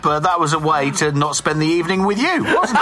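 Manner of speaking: teasing with a laugh; chuckling, playfully mocking; laughing tease. Real, not acted.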